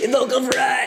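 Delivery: laughing at her own slip. Real, not acted. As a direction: giggle the words out.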